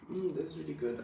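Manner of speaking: talking with a mouthful; eating peanut butter while talking; mouth full. Real, not acted. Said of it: "I can't talk while I'm eating peanut butter".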